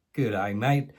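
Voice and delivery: mock Aussie greeting; Australian accent. Brit imagining Australia greets like a local, Australian accent. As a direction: put on a broad Australian accent. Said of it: "Sorry for the accent".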